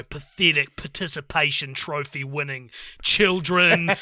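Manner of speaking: lightly put-on disparaging voice; a touch of mock contempt, clearly not your own view; put-on derogatory voice. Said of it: "I gotta put on a voice for the next sentence".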